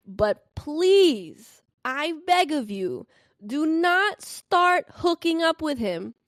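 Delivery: high, slow, drawn-out begging; pleading with friend. Retold or imitated. Driver pleading with girlfriend, high and slow. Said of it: "And I was like".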